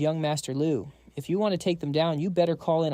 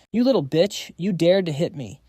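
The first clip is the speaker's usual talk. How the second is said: screaming; 4 dB louder than usual. Acted. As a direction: yell it at her, stung and outraged. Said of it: "he stumbles up and screams".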